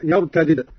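يرتدد with i on the first د, none on the second; unmerged double dal. Shown as a demonstration. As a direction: say يرتدد as "yartadid", two separate d's. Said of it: "قرأ قالون على فك الإدغام".

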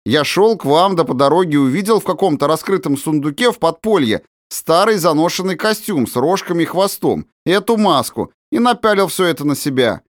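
put-on high, cheerful boyish telling; merry boy. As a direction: explain the prank, amused. Andryusha explains prank. (весёлый мальчишеский голос)

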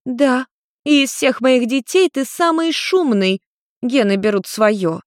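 high, slow complaining mother voice; mother with a headache complaining about her son.

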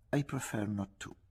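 polite, firm refusal in English; politely firm. A narrator's reading. Bartleby declining his employer's errands, politely firm. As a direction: decline courteously but immovably. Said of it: "con educata fermezza".

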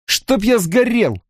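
high, drawn-out stunned curse; exhaled oath. A narrator's reading. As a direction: swear in dismay. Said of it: "выдохнул Мэтт". (потрясённо выдохнуть)

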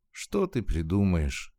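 ordinary delivery

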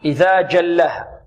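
slow جلها, firm "j" from mid-tongue; correct hard jim. Shown as a demonstration. Teacher confirms the right way, slow firm jim. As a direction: recite جلها with a stopped jim. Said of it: "نعم".

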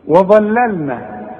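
وظللنا slow with a heavy ظ and light لام; model reading. Shown as a demonstration. Teacher giving the model reading to copy. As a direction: stretch وظللنا with thick ظ and thin ل. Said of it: "زي ما انا قلتها".

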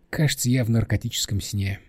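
soft, dejected conclusion; subdued, beaten-down voice; crushed. Acted. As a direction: say it softly in defeat. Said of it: "убито заключила Нина".

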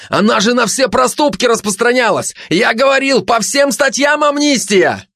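high-pitched frantic protest; very high, desperate outcry; crying out. Acted. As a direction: plead your case in a high cry. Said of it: "закричал предатель".

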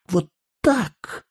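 put-on the little girl near tears as she hugs; tearful child. A narrator's reading. Child hugging, promising.

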